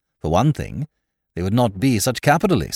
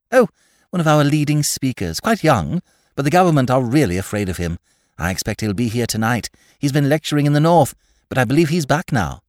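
put-on eager young woman; 5 semitones higher, 3 dB louder than usual. Tarrant describes Goyles.

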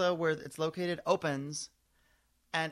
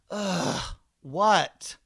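a curt, annoyed ugh then a loud what; full Kate Gosselin; 3 semitones higher, 7 dB louder than usual. Retold or imitated. Kate Gosselin spinning on her heels to the fan, curt and annoyed. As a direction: snap it back like a bothered celebrity. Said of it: "she gives you full Kate Gosselin".

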